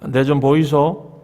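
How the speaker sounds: slow Gyeongsang accent, drawn out; Gyeongsang dialect. Shown as a demonstration. Preacher showing the congregation how Gyeongsang folk say excuse me, slow Gyeongsang accent. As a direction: say it slowly like a Gyeongsang local. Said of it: "경상도는요?".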